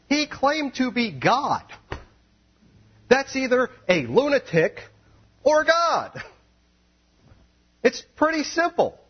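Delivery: high, loud, fervent preaching; preaching at full force. Acted. Preacher hammering Jesus' claim to be God, full force. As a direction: drive it home to the crowd.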